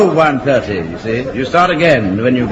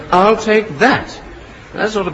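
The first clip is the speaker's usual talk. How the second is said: slow, higher mock officer voice; imitating Mainwaring; 7 semitones higher, slower than usual. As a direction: drag it out like a smug superior. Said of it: "put your hand on it and say".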